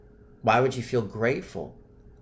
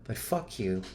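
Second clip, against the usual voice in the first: fading anger. Shown as a demonstration. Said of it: "raise the frequency of the anger".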